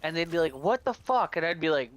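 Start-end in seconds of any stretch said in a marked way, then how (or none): 0.5-1.4 higher imitation of an angry player; a touch of retold outrage; mock angry outburst. Beaten players complaining to the teabagger, mock anger. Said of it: "because they were so mad".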